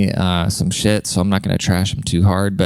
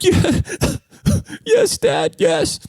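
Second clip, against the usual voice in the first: put-on meek little kid; much slower than usual. Kid answering dad's scolding.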